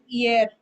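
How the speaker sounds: "hier" said as ee-air; French pronunciation. Shown as a demonstration. Teacher showing a student the word for yesterday, French pronunciation of "hier". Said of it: "This is pronounced as".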